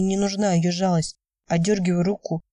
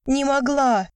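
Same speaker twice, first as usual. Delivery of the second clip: yelling; 7 semitones higher, slower than usual. A narrator's reading. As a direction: hurl it at him. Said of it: "заорала любимая". (громкий крик, высоко)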